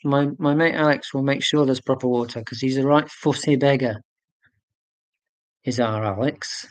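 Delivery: lightly put-on Yorkshire accent, barely shifted; a half-hearted stab at broad Yorkshire; terrible Yorkshire accent. Telling viewers about his fussy mate Alex, in a weak mock Yorkshire accent. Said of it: "that's a terrible Yorkshire accent".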